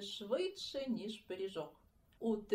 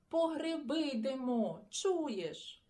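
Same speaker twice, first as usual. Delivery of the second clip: calling out; 4 semitones higher, 3 dB louder, slower than usual. Acted. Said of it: "гукнув Сашко Циган".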